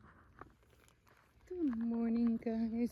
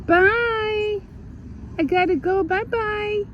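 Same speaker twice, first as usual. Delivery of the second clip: much higher, cooing pet voice; slower than usual. Real, not acted. Greeting the cat she found, high cooing baby talk.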